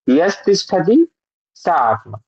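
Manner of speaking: यस तिष्ठति, slow, यस then तिष्ठति; slow split reading. Shown as a demonstration. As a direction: read यस straight, no ई on सा. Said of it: "यस पढ़िए सीधा". (धीरे से यस, फिर तिष्ठति)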